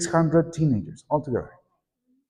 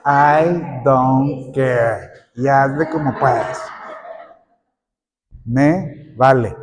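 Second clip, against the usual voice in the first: very slow, dragged-out indifference; mock apathetic teen; indifferent; 2 semitones lower, much slower than usual. Shown as a demonstration. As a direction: drag it out like you couldn't care less. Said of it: "the tone of how would a child would say".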